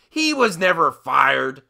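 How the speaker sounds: normal talking voice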